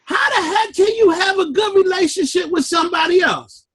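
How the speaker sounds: a retold rant from the car, half shouted; exasperated outcry. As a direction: shout it like you caught yourself beating yourself up. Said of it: "and I'm saying".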